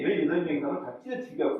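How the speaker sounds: normal talking voice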